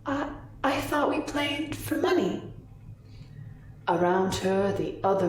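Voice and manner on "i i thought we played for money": put-on high, hesitant young woman; nervous, higher-pitched protest; uncomfortable. A narrator's reading. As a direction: stammer the start, uneasy and timid. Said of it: "The young woman looks uncomfortable".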